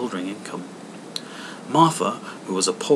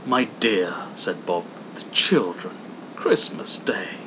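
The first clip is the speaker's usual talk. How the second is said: mild. Acted. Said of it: "was Bob's mild answer".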